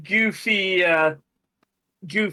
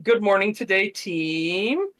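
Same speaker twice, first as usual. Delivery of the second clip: mock upspeak boss; slower than usual. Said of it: "every sentence ends in a question".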